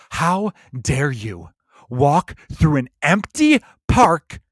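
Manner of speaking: slow, mock-outraged lecture; mocking a far-left guy scolding a dog walker; preachy scold impression. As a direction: scold a stranger, dragging it out. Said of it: "that person I just did a stellar impression of".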